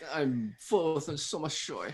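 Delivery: bad, fake German accent, soft. Asked for the phrase they usually say, giving it: terrible German accent. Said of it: "talk with a terrible German accent".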